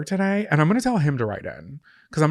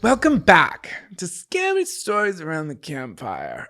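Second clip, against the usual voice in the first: slow, higher Australian announcer; hammed-up Australian show intro; go-to Australian-style accent; 4 semitones higher, slower than usual. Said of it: "go-to accent when I do that".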